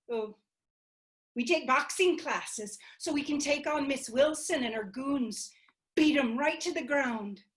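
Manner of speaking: bubbling with ideas; Tuli and Selena scheming. Acted. Tuli and Selena plotting the next campaign, eager.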